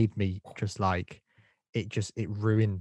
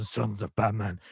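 brought-down pitch. Shown as a demonstration. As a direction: bring the rallying cry down, no shriek. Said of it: "bring it down".

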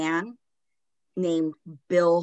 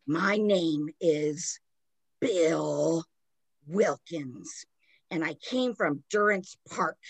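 put-on old man ghost voice. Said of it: "talking more as Bill Wilkins".

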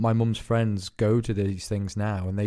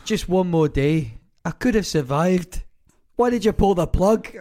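higher, louder, slow pleading from beyond; dead voice accusing; 6 semitones higher, 4 dB louder than usual. Retold or imitated. Mimicking a dead relative accusing family, mock-pleading. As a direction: wail it slow and wounded, building up. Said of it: "He does a clairvoyant".

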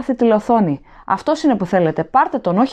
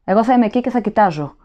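high, raised, desperate pleading; frantic begging; 5 semitones higher than usual. A narrator's reading. Prisoner begs the officer to take others, frantic pleading. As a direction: plead frantically, offering anyone else.

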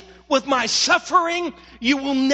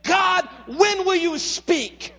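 slow plea; 4 semitones higher, slower than usual. Retold or imitated. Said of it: "he's crying out to God".

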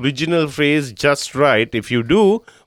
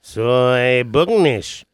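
backwards speech; much slower than usual. Shown as a demonstration. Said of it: "I think I got it".

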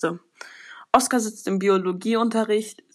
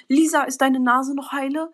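higher, mildly worked-up question; agitated grandmother; 5 semitones higher than usual. Acted. Grandmother asks Lisa about her nose after a fall, agitated. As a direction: ask anxiously in a raised pitch. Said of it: "fragt die Großmutter ganz aufgeregt".

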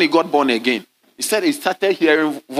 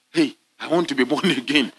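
laughing retold plea; 3 dB quieter than usual.

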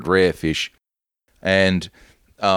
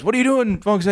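teacher yelling; 11 semitones higher than usual. Retold or imitated. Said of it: "And then he goes".

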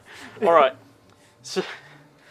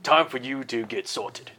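lightly voiced gamekeeper rounding up children; light character voice, starting louder then easing off; Hagrid; 3 dB louder than usual. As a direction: call the kids along, lightly in character. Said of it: "You see Hagrid, and he tells you".

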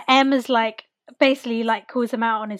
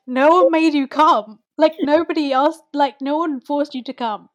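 louder, exasperated retort in imitation; mock telling-off; 4 semitones higher, 5 dB louder than usual. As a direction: put a sulker firmly in place. Knightley telling off a sulking Frank.

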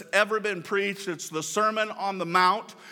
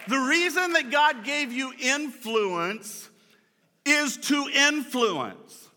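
higher and slow, drawn out; repeated for emphasis; 5 semitones higher, slower than usual. Shown as a demonstration. Pastor restating his profound line, higher and slower. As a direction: say it again raised and slowly, driving it home. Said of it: "That's, that's profound, man".

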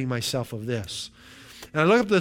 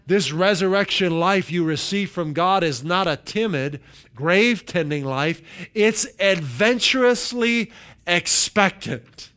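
emphatic scripture reading; 3 semitones higher, 3 dB louder, slower than usual. Acted. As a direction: read the verse out, lifting and stretching the last phrase. Reads the verse again.

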